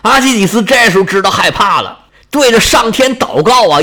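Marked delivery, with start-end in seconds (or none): none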